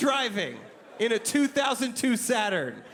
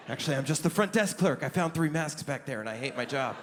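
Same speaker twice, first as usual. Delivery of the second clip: hams up a ghostly hotel clerk; spooky desk clerk; 8 semitones lower than usual. Retold or imitated. Clerk drops act, deadpan.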